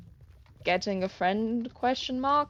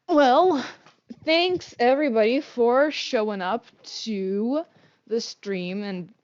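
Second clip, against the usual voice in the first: usual speaking voice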